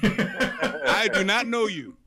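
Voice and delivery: "I do not know you" word by word, slowly; emphatic denial. Acted. God turning away Black Sable, slow emphatic "I do not know you". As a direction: spell out "I do not know you" in mock disavowal. Acting God disowning a penitent.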